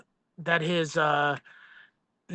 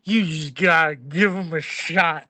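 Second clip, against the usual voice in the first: put-on drunk slurring; 2 semitones lower than usual. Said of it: "You're hammered, slurring your words?".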